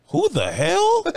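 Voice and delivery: high, slow laughing outburst; laughing disbelief. Real, not acted.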